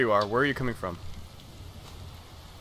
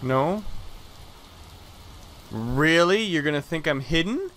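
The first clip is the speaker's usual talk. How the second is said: incredulous; 5 semitones higher, 4 dB louder than usual. Real, not acted. Disbelief at enemy AI.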